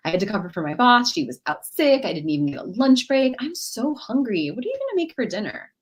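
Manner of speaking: self-absorbed rush, turning it to herself; mock complaining, all about me; hijacker. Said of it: "She could be a hijacker".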